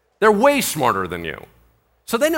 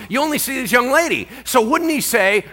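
normal talking voice

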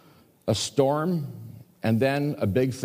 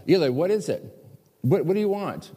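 eager Samuel; 6 semitones higher than usual. Acted. Samuel runs to Eli.

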